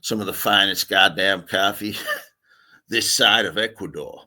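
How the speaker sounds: put-on American accent with a chuckle; jokey American patter. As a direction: boast in a mock American accent. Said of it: "not doing any more American accents now".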